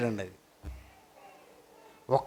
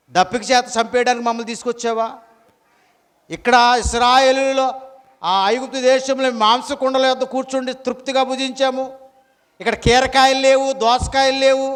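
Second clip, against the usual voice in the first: higher-pitched mock grumbling; acted complaint; 4 semitones higher than usual. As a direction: complain like the aggrieved Israelites. Acts out Israelites complaining to God.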